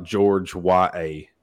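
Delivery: says "George Y A" slowly, like George and a spelled Y A; slow and split apart; spelled-out Georgia. Retold or imitated. Mocking newcomers who split Georgia into parts. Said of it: "they almost want to say".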